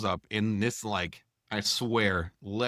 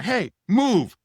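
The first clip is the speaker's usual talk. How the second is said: much higher and louder bark; mock shouted order; 11 semitones higher, 8 dB louder than usual. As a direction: bark it like a fed-up loadmaster. Loadmaster orders tractor away.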